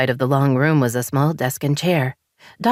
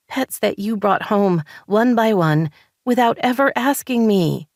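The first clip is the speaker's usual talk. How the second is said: higher, frustrated rising voice; wife venting frustration at husband, higher and heated; 4 semitones higher than usual. Acted. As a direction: let the frustration boil over. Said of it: "frustration bubbling up inside".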